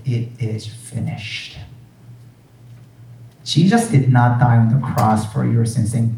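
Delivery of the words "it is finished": hushed reverence. Acted. Quoting Jesus's last words softly.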